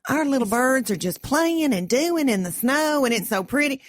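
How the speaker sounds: cheery mom. Retold or imitated. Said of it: "Lucille will get on the phone and go".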